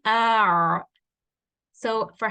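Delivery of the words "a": a cut off tight in the mid throat; clipped constricted a; teacher demoing ain with sukun. Shown as a demonstration. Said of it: "ain with a sukun".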